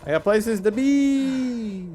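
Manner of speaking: mock haughty. Dismissive line to game character.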